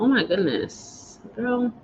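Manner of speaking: shaking her head at her own tears; emotional. Real, not acted. Laughing off tears to her viewers, softly overwhelmed. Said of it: "I don't know why I'm so emotional".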